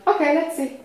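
calm acceptance. Shown as a demonstration. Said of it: "To, like".

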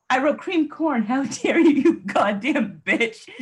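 hammed-up outrage breaking into a laugh; mock pissed off. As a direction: act out an outraged complaint, stretching the final insult. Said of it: "pissed about it".

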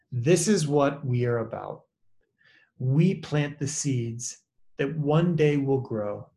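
measured prayer, with pauses between the phrases; slow, deliberate prayer reading. Real, not acted. Pastor closing the group's time with a favourite prayer, slow and deliberate. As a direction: read the prayer slowly and deliberately. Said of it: "I wanna read it slowly and deliberately".

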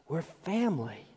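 quiet emphatic echo; soft repeat. Shown as a demonstration. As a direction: say it again almost under the breath. Softer repeat of key phrase.

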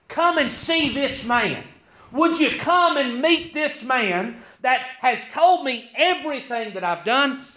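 a hint of eager crying out through the streets; mock calling out. Retelling the woman calling the town to come, mild mock call. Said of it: "she's crying out loud".

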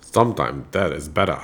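put-on practiced Maine accent, pitched well down. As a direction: put on your best low Maine voice. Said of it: "try your best Maine accent for".

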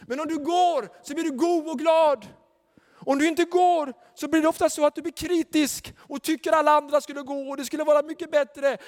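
high, loud fervent preaching; preaching at full force. Acted. Preacher urging the congregation to go. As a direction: drive the call home.

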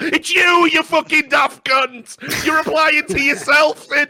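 high shouted angry rant; furious rant. Real, not acted. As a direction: yell it out in outrage. Ranting at Reddit moderators.

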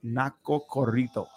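Narco corridos with a rolled r. Shown as a demonstration. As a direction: roll the r in corridos. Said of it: "I'm rolling my R's".

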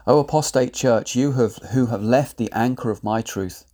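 measured, solemn proclamation in God's first person; prophetic declaration. Acted. Prophet speaking as God to the established churches, solemn and rebuking. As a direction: pronounce it like an oracle rebuking a wayward church.

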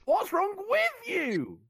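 "with" stressed high and loud, slow; slow, put the weight on "with". Shown as a demonstration. Take for a sound clip, awkward stress on "with". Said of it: "emphasis on each word in each take".

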